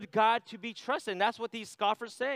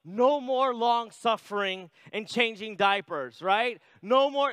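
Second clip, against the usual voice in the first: relieved cheer; 3 semitones higher, 4 dB louder, slower than usual. Retold or imitated. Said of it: "I was like".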